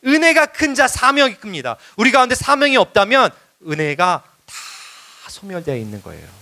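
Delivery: high, emphatic sermon delivery; impassioned preaching. Real, not acted. Preacher concluding to beloved congregation, impassioned exhortation. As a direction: proclaim it with conviction to the congregation.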